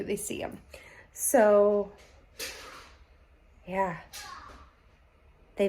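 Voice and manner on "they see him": whispering. Real, not acted. Hushed spoiler hint.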